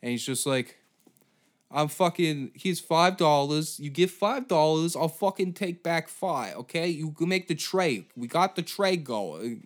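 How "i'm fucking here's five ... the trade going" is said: higher, nasal-free sleazy street dealer pitch; slimy New York hustler. Acted. Comedian voicing Lou as a slimy New York hustler. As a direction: hustle him like a sewer-born con man. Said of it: "slimy Jewish fucking New York slime ball".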